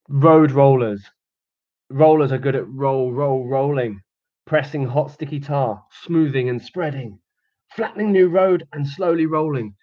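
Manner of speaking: lively storybook read with rhythmic sounds; reading to children. Acted. Teacher reading the digger story to children, lively. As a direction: read it out playfully for little ones. Reads picture book to kids.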